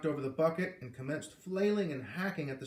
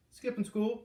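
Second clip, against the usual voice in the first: much higher cheerful reply; merrily; 10 semitones higher, 4 dB louder than usual. A narrator's reading. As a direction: toss it off with glee. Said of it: "Garrett replied merrily".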